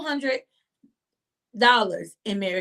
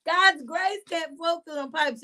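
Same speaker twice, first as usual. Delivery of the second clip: excited repeat; 5 semitones higher than usual. Real, not acted.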